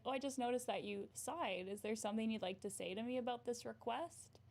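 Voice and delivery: sincere, not sarcastic. Shown as a demonstration. Calmly asking a sighing coworker what's wrong, gently. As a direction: gently invite them to speak up. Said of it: "not sarcastically, like".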